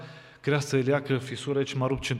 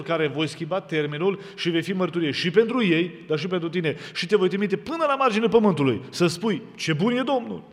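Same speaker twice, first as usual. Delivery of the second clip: rising, louder prophetic proclamation; proclaiming God's word; 4 semitones higher, 5 dB louder than usual. Retold or imitated. Preacher voicing the Lord's message to the congregation, rising loud proclamation. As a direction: declare it like a prophet, building higher. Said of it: "A zis Domnul așa".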